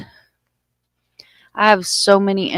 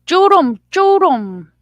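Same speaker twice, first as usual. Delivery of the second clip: calls the name higher and louder; calling out; 11 semitones higher, 8 dB louder, slower than usual. Real, not acted. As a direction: shout the name across the room.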